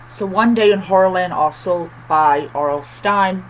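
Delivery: lisping on every s. Real, not acted. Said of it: "I'm sorry for my lisp".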